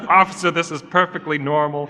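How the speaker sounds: giggling through a fake excuse to the officer; laughing at a pretend police officer; laughing mock excuse. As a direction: try to stay straight but laugh. Acting out a traffic stop.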